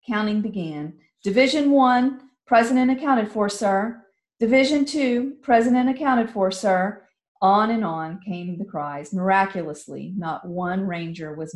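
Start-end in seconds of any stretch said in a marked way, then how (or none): 1.2-4.0 loud, crisp military report; ranger reporting. Acted. Rangers calling roll. 4.4-7.1 loud, crisp military report; ranger reporting. Acted. Rangers calling roll.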